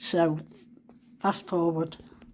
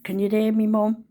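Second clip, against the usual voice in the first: slightly raised calling voice; imitated call upstairs; 4 dB louder than usual. Mother calling up to her daughter, imitated shout. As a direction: call it up the stairs. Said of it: "she shouts up to Leah".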